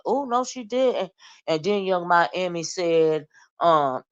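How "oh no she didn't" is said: mock outrage. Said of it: "And I was like".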